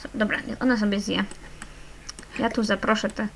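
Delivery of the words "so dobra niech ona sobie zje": usual speaking voice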